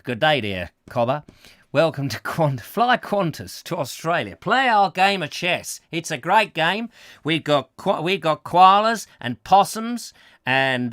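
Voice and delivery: hammed-up, hearty Australian voice; Australian accent. Host pitches an Australian version of chess, mock Australian accent. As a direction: play up a broad Australian accent. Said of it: "an Australian".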